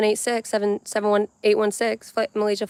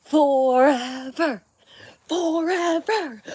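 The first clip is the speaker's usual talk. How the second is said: rising drawn-out forever; 2 semitones higher, much slower than usual. Retold or imitated. Have you ever watched that from The Sandlot?.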